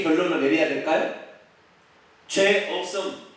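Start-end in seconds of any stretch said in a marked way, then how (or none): 2.3-3.3 slow verdict. Shown as a demonstration. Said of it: "이렇게 내야 돼요".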